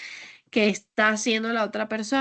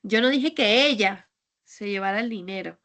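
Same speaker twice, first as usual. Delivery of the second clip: "ella" singled out with a falling tune; stress on ELLA. Shown as a demonstration. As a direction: point at "ella" as if it was someone else. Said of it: "es que igual fue otra persona". (énfasis en "ella")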